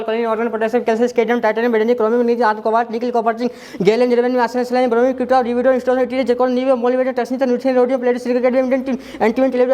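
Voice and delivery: rattling off the elements in one steady run; rapid rote recitation. Shown as a demonstration. Teacher showing students he knows all the elements by heart, quick recitation. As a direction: recite the list from memory without stopping.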